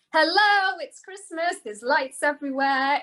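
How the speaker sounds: high, bright mock exclaim; excited. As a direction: announce it like it's amazing. Mock excited American greeting.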